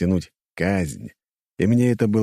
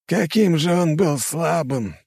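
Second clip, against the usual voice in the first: contemptuous grimace; 9 semitones higher than usual. Acted. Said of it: "скривился император".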